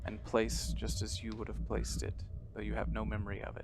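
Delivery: measured, hushed horror narrator; quiet, deliberate game master storytelling; scene narration. Acted. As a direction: set an eerie scene with long pauses.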